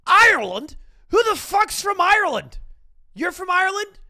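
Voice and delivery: high-pitched, shouted mock outrage; Jacksepticeye impression. Streamer doing his best impression of a friend, hammed-up shouting. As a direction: yell it way up high, as an over-the-top parody. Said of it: "let me do my best Jack impression".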